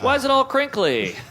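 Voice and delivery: acted friend and threat.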